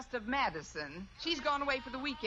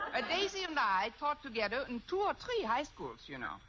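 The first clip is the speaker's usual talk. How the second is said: fake German accent. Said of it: "If I can do a decent German accent".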